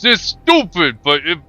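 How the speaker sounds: high sputtering ogre rant; ogre yelling. Acted. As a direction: splutter in a rage. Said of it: "he starts yelling".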